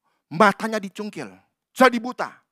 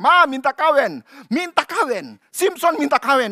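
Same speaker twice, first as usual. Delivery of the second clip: put-on whining child; 6 semitones higher, 8 dB louder than usual. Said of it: "merengek-rengek".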